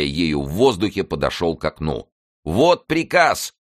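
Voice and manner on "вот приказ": very high, loud, slow shout; triumphant shout. A narrator's reading. Coadjutor shouts to the crowd, high triumphant shout. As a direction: wave the paper and shout. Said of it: "крикнул он".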